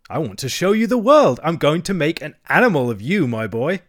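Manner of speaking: high, insistent wheedling; imploring Toad. A narrator's reading. Toad persuading Rat to leave the river, imploring. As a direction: plead while brooking no argument. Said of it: "said Toad imploringly".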